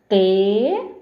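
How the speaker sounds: "Tesoura" stretched out loudly in three syllables, te-sou-ra. Shown as a demonstration. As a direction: draw out each syllable of "Tesoura" for pupils, te... sou... ra. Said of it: "Olhe bem como eu pronuncio a palavra tesoura". ("Tesoura" bem alto, pausado sílaba por sílaba)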